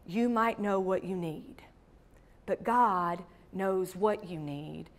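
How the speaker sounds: whispered, intimate aside; soft, voiceless whisper to the listeners; hushed whisper. Real, not acted. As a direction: lean in and breathe it to the congregation. Intimate sermon moment.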